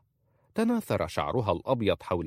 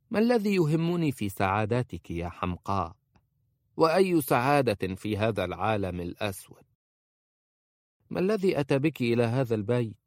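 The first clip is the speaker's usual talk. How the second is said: put-on a higher, scolding old woman's voice; bitter old woman; 4 semitones higher than usual. A narrator's reading. Khalisa scolding the young bride about the household, bitter. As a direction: berate the naive girl with bitterness.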